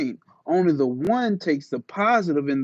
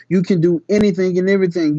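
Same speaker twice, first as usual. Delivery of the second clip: rousing declaration; 5 dB louder, faster than usual. Acted. Rousing climax of the reading.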